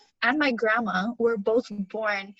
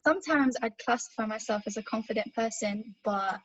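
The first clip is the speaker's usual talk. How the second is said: careful put-on British accent. Shown as a demonstration. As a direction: answer in an assumed British accent. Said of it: "it's so hard to think in switching accents".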